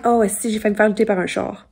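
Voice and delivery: Quebecois French. Shown as a demonstration. Showing commenters the most Quebecois thing she can think of, strong Quebecois accent. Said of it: "Quebecois thing I can think of".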